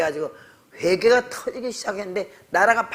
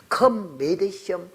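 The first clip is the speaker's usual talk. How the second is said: very slow punchline; much slower than usual. Shown as a demonstration. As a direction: drag out "Come, may they show" slowly. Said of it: "무슨 말인가 하니".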